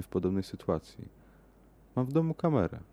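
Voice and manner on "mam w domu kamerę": high-pitched eager woman's voice; clearly excited. A narrator's reading. Woman offers her lover a camera, excitedly. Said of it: "podjęła wyraźnie podniecona".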